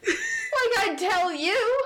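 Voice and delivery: high, slow sneering retort; scornful cultist. Acted. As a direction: drag it out with scorn.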